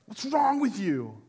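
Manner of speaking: loud hissed stop then slow scold; voicing the incision. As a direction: let the wound scold you. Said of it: "incision goes".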